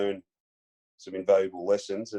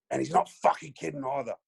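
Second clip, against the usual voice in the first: lightly imitated warning, pitched up; Martin Pike; 5 semitones higher than usual. Second opponent backing up the threat to rookie, imitated warning. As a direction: echo the threat as a sidekick, half laughing. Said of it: "He turns to me and he goes".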